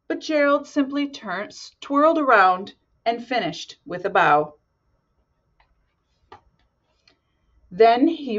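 lively storybook narration; reading to children. A narrator's reading. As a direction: read it like bedtime story. Reads picture book aloud.

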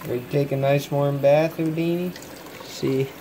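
pet talk. Real, not acted. Coaxing pet lizard into bath.

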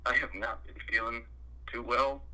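worn-out, unwell voice; sick voice. Acted. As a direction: sound like you're coming down with something. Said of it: "you sound awful".

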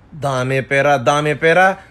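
low mocking echo.

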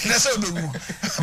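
real laughter through the words; amused, laughing preacher's aside. Real, not acted. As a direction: chuckle while telling it. Joking aside, laughter heard.

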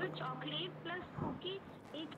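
choppy call audio dropping out; breaking up space radio. Real, not acted. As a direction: voice cutting out on a bad line. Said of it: "तुम्हारी आवाज़ कट रही है".

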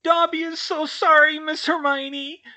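very high, loud elf wail; Dobby wailing. A narrator's reading. House elf to young mistress, loud remorseful wail. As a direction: wail an apology in a squeaky elf voice. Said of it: "he wailed".

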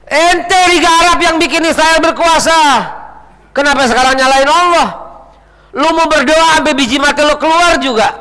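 high-pitched preacher's tirade; heated rebuke. Acted. Preacher rebukes Arab League.

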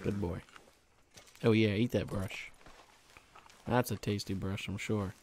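quiet, gentle talk to the horse; soft horse praise. Real, not acted. Rider praising his horse as it eats, quietly. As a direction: coo at the horse while it eats.

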